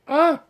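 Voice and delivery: short, high, loud "ah"; sudden welling-up exclamation; emotional cry out. Real, not acted. Stylist moved by client's message, emotional outburst. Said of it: "I'm gonna get emotional".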